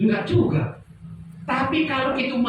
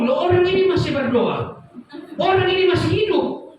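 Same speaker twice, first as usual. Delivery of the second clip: retold disbelief; 8 semitones higher than usual. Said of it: "Lalu mereka ngomong".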